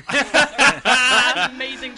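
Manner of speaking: laughing through the words; giggling at her own joke. Real, not acted. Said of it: "you're laughing at your own joke".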